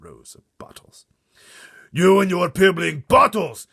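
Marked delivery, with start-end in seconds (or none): 1.9-3.7 slow huge roaring giant; shouting giant. Acted. Blood Bottler mocking the BFG's bottles, shouting. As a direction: roar with contempt. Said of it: "he shouted".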